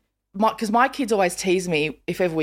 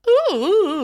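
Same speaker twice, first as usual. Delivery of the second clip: drawled vocal caricature; Judith Lucy; 12 semitones higher, 4 dB louder, faster than usual. Retold or imitated. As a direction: mimic a distinctive voice with oohs. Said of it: "Judith Lucy, who's got a".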